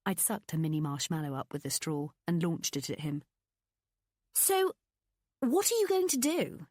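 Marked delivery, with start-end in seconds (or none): 4.3-6.7 high, bright friendly questioning; lightly voiced best friend; Pippa's voice. A narrator's reading.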